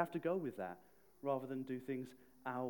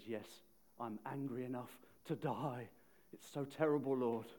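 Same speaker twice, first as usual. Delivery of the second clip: sulky reply; 2 semitones lower than usual. Retold or imitated. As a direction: mutter it like a sulking child. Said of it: "He remains in a sulk".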